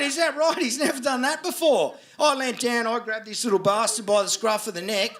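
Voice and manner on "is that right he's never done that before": sarcastic echo. Retold or imitated. Mocks the lady's excuse.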